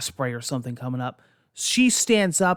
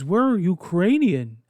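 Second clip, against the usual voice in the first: mock accent; 4 semitones higher, 4 dB louder, slower than usual. Wife's fake claim, odd voice.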